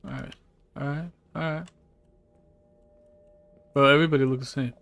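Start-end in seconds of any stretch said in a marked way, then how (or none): 3.7-4.7 amused outburst. Real, not acted. Laughing at identical characters.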